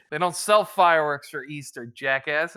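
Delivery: laughing rant at cousin over fireworks in April; exasperated loud rant. Retold or imitated. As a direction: yell it at your dumb cousin, half laughing.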